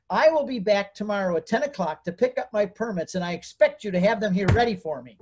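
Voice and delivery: steady, insistent ultimatum; firm demand. Retold or imitated. Telling the counselor he'll return tomorrow, mildly firm ultimatum. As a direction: lay down the deadline with confidence. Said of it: "I said it just like this".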